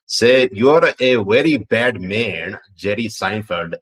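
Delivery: light Pakistani accent, slow and lilting; a playful stab at a Pakistani accent on request. Shown as a demonstration. Reading a viewer's request in a light Pakistani accent. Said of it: "in the Pakistani accent".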